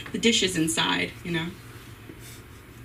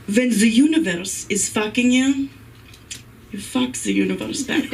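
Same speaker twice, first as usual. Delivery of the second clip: emphatic. Shown as a demonstration. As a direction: announce it like a big truth. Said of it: "very important piece of information".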